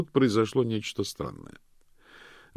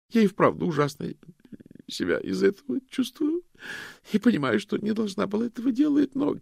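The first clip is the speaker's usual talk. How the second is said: high, fast guilty babble; anxious rushed confession; 12 semitones higher, 7 dB louder than usual. A narrator's reading. Loretta babbles out her confession to the detectives. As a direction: rush it out, guilty.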